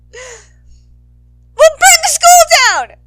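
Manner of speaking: slow, high, loud rioter yell. Acted. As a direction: drag out the threat like a rallying cry. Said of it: "someone yells".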